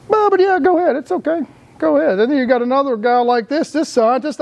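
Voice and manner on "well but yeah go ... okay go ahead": sarcastic go-ahead. Pretend. Sarcastic permission to the poisoners.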